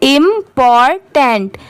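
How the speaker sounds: "इम्पॉर्टेंट" slowly in clear syllables, im-por-tent; careful pronunciation. Shown as a demonstration. Teacher reading out the full word, "इम्पॉर्टेंट" slow and careful. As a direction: sound out "इम्पॉर्टेंट" slowly, part by part. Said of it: "तो पूरा क्या पढ़ेंगे".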